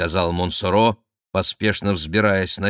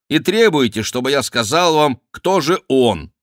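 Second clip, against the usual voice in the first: raised, louder voice of complaint; protesting; 6 semitones higher, 5 dB louder than usual. A narrator's reading. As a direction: push back indignantly. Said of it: "запротестовал Сен-Люк". (протестующе, на повышенном тоне)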